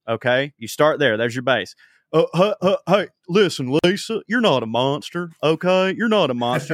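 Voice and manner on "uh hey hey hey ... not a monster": lightly voiced folksy TV therapist; a hint of Doctor Phil soothing a guest; mild talk-show shrink reassurance; Doctor Phil impression. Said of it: "doing an impression of Doctor Phil".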